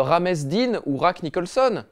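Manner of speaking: "Rames" and "Rack" with Spanish initial sound, drawn out; mock Spanish pronunciation. Shown as a demonstration. Host ridiculing the naming fad, absurd Spanish-style "Rames" and "Rack". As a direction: slowly misread "Rames Dean" and "Rack Nicholson" Spanish-style. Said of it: "mais on dit pas".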